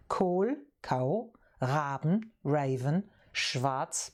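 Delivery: Kohl, Raben, schwarz broken into separate parts; word by word. Shown as a demonstration. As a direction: split Kohlraben schwarz into its pieces, one at a time. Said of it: "German, being the compound language".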